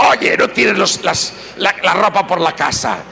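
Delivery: wife nagging husband, mock shrill scold. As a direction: scold him about the laundry. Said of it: "ahora se hizo más gargantosa".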